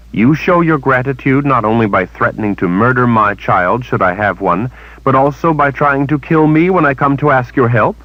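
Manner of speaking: put-on indignant young heroine; Kalen, indignant. A narrator's reading.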